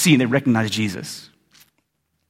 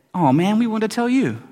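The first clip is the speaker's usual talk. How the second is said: higher-pitched, eager retelling; excited disciples; 6 semitones higher than usual. Retold or imitated. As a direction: imitate disciples bursting with news. Voices excited disciples back from the road.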